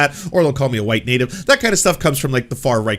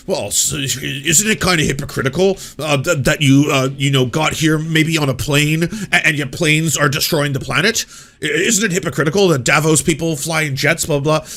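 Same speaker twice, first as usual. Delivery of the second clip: mock reporter; 3 semitones higher, 3 dB louder than usual. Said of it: "follows Greta around being like".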